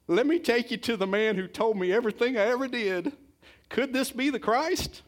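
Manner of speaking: high, loud, breathless excitement of the woman; excited woman. Acted. The woman running to tell the town, high and excited. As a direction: shout it out like she just met the Messiah.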